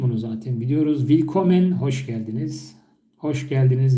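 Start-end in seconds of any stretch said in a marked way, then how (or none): 1.0-1.7 Willkommen said clearly, in German; German pronunciation. Shown as a demonstration. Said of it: "Tamam derken okey". (Almanca Willkommen telaffuzu)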